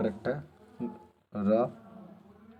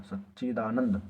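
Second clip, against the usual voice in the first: slow model word; slower than usual. Shown as a demonstration. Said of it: "बिल्कुल सही लिखा है".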